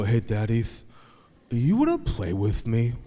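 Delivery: imitated little boy's lisp; lisping four-year-old. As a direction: ask dad to play, lisping like a small child. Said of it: "he talks like this".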